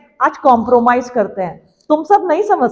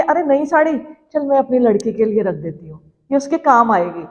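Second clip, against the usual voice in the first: mother's private thought, a little lowered; lightly voiced mother; 3 semitones lower, 3 dB quieter than usual. Mother saving jewellery for her daughter, in a lightly acted, subdued voice. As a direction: lightly act a mother giving up her own treat. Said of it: "माँ सोचती है".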